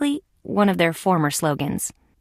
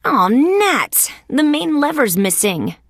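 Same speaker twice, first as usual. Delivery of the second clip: higher-pitched frustrated exclamation; dismayed outburst, pitched up; exasperated; 5 semitones higher, slower than usual. Acted. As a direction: curse your luck, mildly. Finds the lever gone.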